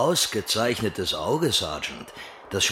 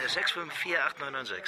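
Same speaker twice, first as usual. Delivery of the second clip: sultry voice; 6 dB quieter than usual. Acted. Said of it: "Super sexy Stimme".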